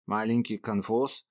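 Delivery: slow, each syllable separate; clipped syllables. A narrator's reading. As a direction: spell it out syllable by syllable. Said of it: "чеканя слог".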